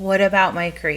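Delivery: plain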